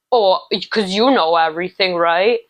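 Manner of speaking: snide, mock-defensive jab ending on a rise; sarcastic retort. Reader mimicking a defensive person, mild sarcastic jab. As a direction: play the defensive know-it-all, lightly.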